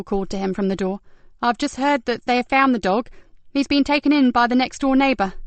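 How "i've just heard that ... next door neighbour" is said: a slightly higher, brighter officer's voice; lightly voiced young constable. Constable tells Ben the dog has been found, lightly voiced. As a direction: deliver good news eagerly.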